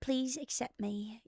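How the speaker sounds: lightly acted British accent; mock British accent. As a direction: confess in a put-on British accent. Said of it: "putting on an American accent, but actually I'm British".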